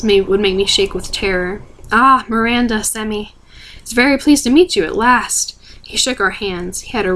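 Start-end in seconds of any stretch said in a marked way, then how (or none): 1.9-5.5 put-on smooth American accent. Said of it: "rich, smooth, calm voice and an American accent".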